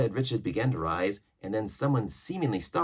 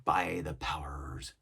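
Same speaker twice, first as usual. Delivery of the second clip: pirate cook; 2 semitones lower, much slower than usual. Acted. Ship's cook to mutineers, lively pirate voice. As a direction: exclaim it like a sea cook.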